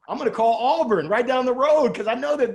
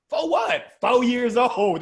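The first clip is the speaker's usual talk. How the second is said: mock shout; 4 semitones higher, 5 dB louder, slower than usual. Teacher and little Larry.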